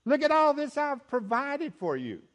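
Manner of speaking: voicing God. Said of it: "God was focused on".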